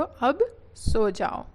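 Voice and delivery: drawn out for the class; 아주 천천히 또박또박; very slow model phrase. Shown as a demonstration. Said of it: "teacher models the phrase".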